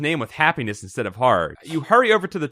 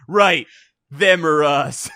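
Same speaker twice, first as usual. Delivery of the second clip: grim agreement; 2 semitones higher, 4 dB louder, much slower than usual. Acted.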